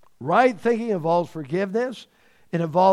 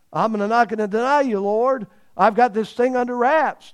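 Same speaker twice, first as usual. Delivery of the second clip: higher, louder, fast and sure of himself; cocky boast; 5 semitones higher, 5 dB louder than usual. Retold or imitated. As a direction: brag like nothing can touch you. Peter's boast retold.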